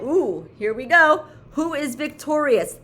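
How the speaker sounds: high, loud, eager suspense; game show suspense. Pretend. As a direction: tease the winner like a host.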